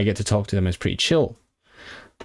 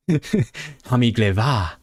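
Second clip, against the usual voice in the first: Scottish Gaelic; much slower than usual. Shown as a demonstration. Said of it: "my brain is giving me a Scottish Gaelic".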